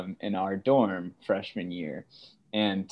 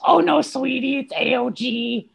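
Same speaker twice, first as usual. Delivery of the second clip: much higher, sweet motherly voice; mom voice; 4 dB louder than usual. Retold or imitated. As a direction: play mom gently correcting her son. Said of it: "This is my mom voice".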